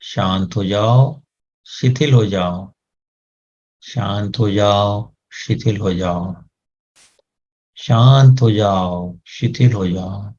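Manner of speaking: slow, soothing repeated command; slow calming command. Shown as a demonstration. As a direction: lull the head into stillness. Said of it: "इनको आदेश दें". (धीरे-धीरे शांत करता आदेश)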